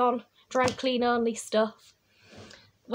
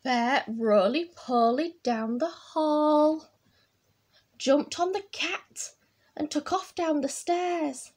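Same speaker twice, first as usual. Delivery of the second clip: put-on drawn-out, relished read-aloud for children; picture-book storytelling; 3 semitones higher than usual. A narrator's reading. Reading Bear's washing mishap to children, animated storytelling. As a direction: stretch the action words slowly for little listeners.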